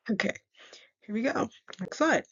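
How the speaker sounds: talking with a retainer in; speech slightly off from a retainer; wearing a retainer. Real, not acted. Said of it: "I'm also wearing my retainer, so don't mind if I sound a little off".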